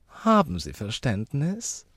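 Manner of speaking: high, slow, coaxing question; charming smile. A narrator's reading. Lady charming the uncle, high and sweetly coaxing. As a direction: draw it out with an enchanting smile. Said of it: "mit ihrem bezauberndsten Lächeln".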